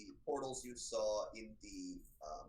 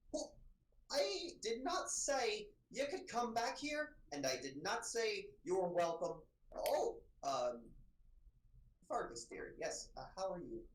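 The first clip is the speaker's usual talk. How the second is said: high, prim, scolding librarian voice, softening for Fergus; a fussy older scholar catching intruders; prim older librarian Diana; 9 semitones higher, slower than usual. Acted.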